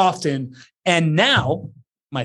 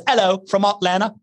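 mock British, "Hello" as "'ello"; British accent; 3 semitones higher than usual. Shown as a demonstration. Host reading a viewer's greeting in a mock British accent. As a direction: put on a British accent and drop the H. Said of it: "I'm giving you a British accent".

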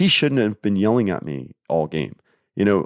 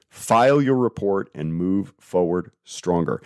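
reading her note. Shown as a demonstration. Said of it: "I'm gonna read you what I wrote to her".

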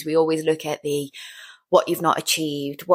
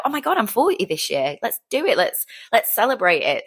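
higher-pitched, eager mock announcement; excited announcement; 5 semitones higher than usual. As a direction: blurt it out like happy news to celebrate. Acts out her own eager announcement.

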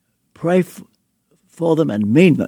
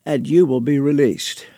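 whispered end. Retold or imitated. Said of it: "I'll try to put on his accent".

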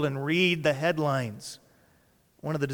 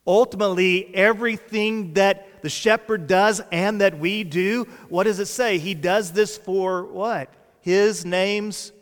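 raised, insistent preacher's voice; impassioned preaching; 5 semitones higher, 6 dB louder than usual. Real, not acted. Preacher to congregation on who the star is, impassioned.

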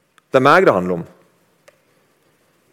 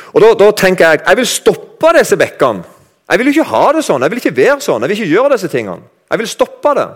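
higher, louder, determined vow; resolute inner voice; 7 semitones higher, 3 dB louder than usual. Acted. Preacher acting a sinner vowing to stop, raised and insistent. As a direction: voice the believer swearing to change, pitched up.

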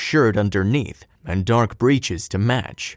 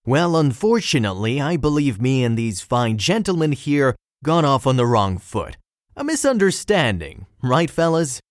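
hero's voice; 3 semitones higher than usual. Acted. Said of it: "replies the hero".

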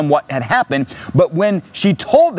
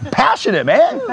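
high, fired-up insistence; passionate; 9 semitones higher than usual. Real, not acted. Preacher to the church, fired up about the word passionate. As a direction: claim it with passion. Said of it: "I'm passionate".

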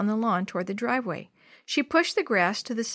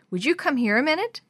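higher-pitched motherly summons; calling out; 6 semitones higher than usual. A narrator's reading. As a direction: call a child over to you. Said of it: "Missus Wallace called".

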